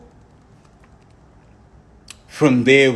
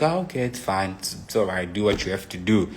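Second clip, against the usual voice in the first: softly imitated resigned acceptance; quiet; 3 semitones lower, 7 dB quieter, faster than usual. Girlfriend letting her busy partner carry on, quiet. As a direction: drop the volume, give in quietly. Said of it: "and she's just quiet".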